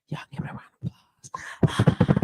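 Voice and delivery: soft whispered call for applause. Real, not acted. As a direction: hush it to the audience. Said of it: "Don't be trying to whisper".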